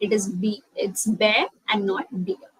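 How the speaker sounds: "bear" with an open air vowel, not "beer"; correct pronunciation. Shown as a demonstration. Teacher to class fixing a mispronounced word, careful demo. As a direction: say "bear" like hair, never like "beer". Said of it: "I've heard a lot of people mispronouncing this particular word".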